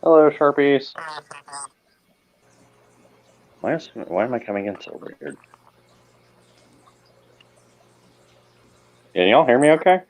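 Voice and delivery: high squeaky helium-sounding voice. Real, not acted. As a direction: sound like you just breathed helium. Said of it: "Sounds like I'm coming in with a helium voice".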